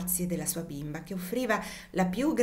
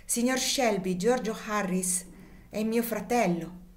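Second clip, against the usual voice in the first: proud; 3 semitones higher than usual. Acted. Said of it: "rialzando il capo alteramente".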